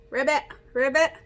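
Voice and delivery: bouncy frog croak sounds; frog ribbit. Shown as a demonstration. Teacher doing a frog for the kids.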